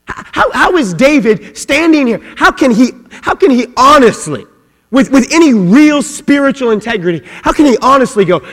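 high, loud incredulous questioning; impassioned preaching. Real, not acted. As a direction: hammer out each challenge from the pulpit. Preaching at full force.

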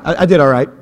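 ordinary talk, nothing marked

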